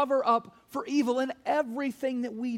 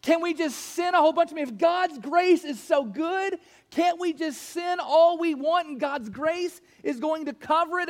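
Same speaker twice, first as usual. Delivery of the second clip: mock objector's question; 7 semitones higher, 5 dB louder than usual. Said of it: "In other words".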